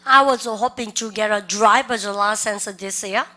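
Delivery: very slow, each word spelled out for students; teacher's slow drill read; slow repeat-after-me. Shown as a demonstration. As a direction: model it slowly for the class to copy. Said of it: "시작".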